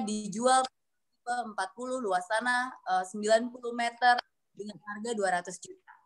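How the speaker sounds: understated, uninflected reading of an ad; flat reading. Shown as a demonstration. Coach shows how a billboard read silently comes out, flat. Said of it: "akhirnya bacanya jadi flat".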